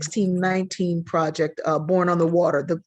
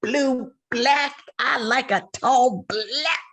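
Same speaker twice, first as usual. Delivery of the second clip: mock swooning; 2 semitones higher than usual. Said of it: "Even saying".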